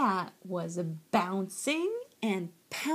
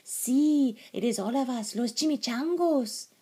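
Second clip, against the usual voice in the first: high, loud Spanish-flavoured announcement; tiny dog; 5 semitones higher, 5 dB louder than usual. A narrator's reading. Smallest dog answers his friend, high and loud. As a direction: announce the gang high and proudly. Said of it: "said Poquito Tito, the smallest of the small ones".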